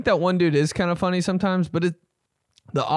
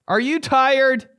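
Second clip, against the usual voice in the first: higher, slower crooned question; rock singer voice; 9 semitones higher, 3 dB louder, slower than usual. Pretend. Repeated in the singer voice.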